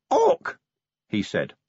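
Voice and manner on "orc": very high, sudden squawk; sharp croaked word. A narrator's reading. Vimes speaks dwarfish to the cube, sharp high squawk. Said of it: "moved the cube close to his mouth".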